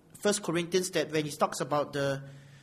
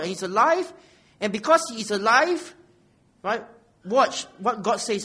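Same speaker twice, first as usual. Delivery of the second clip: louder, insistent sermon delivery; forceful preaching; 4 semitones higher, 8 dB louder than usual. Real, not acted. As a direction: press the point on the congregation.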